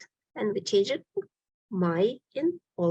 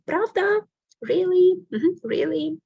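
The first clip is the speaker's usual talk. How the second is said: much higher, incredulous Правда? and really?; astonished disbelief; 12 semitones higher, 3 dB louder than usual. Acted. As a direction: ask it as if you can't believe grandma was young. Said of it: "So she says".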